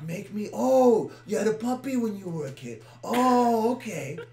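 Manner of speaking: high, hammed-up girlish voice. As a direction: squeal it like a hammy girl. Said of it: "do the girl voice".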